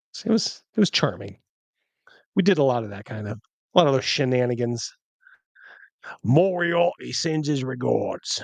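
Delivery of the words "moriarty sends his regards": put-on slow, drawling old Cockney gentleman voice. Retelling a friend's running joke: old Cockney Sherlock Holmes guy voice. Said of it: "like some old Cockney Sherlock Holmes guy".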